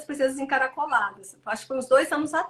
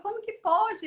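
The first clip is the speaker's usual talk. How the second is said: put-on indignant child; 8 semitones higher, slower than usual. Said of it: "ele ficou indignado".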